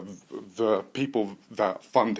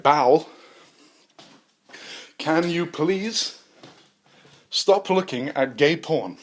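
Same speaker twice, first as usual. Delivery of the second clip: slow pleading; 6 semitones higher, 4 dB louder, much slower than usual. Acted. Scientist pleading slowly.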